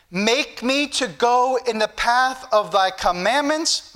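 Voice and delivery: slow, deliberate verse reading; measured pulpit recitation; scripture reading. Real, not acted. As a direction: read it out slowly to a congregation. Reads scripture to congregation.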